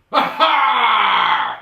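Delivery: very loud high piratical aha; hammed-up pirate cry; pirate's triumphant aha. Shown as a demonstration. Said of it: "encapsulated in just one word".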